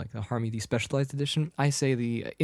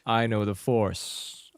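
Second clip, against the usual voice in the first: slow mock-villain line; slow, lightly voiced villain; Darth Vader; 3 semitones lower, much slower than usual. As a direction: intone it slowly like a big bully. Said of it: "he's like".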